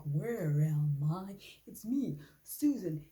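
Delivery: a hint of a lost, dazed voice, slow; confused Susan voice. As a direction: play a lightly voiced confused woman. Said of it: "and she's like".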